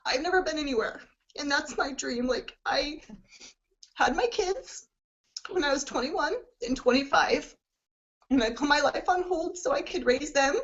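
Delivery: holding back tears while sharing a dream; tearful. Real, not acted. Telling her team she fears never seeing the world, tearful. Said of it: "sorry to get emotional".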